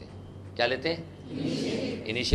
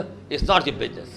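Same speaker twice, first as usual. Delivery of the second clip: slow, hammed-up anger through a laugh; angry; 3 dB louder, much slower than usual. Shown as a demonstration. Teacher shows the class how to say it angrily. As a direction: drag it out like a scolding. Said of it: "गुस्से से बोलो".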